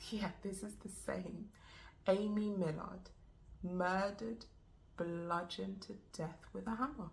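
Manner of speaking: slow, halting, stunned confirmation; understated shock, heavy pauses; grim disbelief. Acted. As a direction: say it slowly, phrase by phrase, as the news sinks in. Confirms news of friend's murder.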